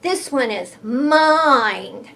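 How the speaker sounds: slow mock shout. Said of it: "he shouted".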